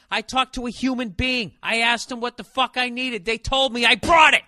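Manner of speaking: building to a yell; rant at the clerk. Retold or imitated. Telling the DMV lady off, building to a yell. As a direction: escalate to a loud exasperated shout. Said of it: "And I was like".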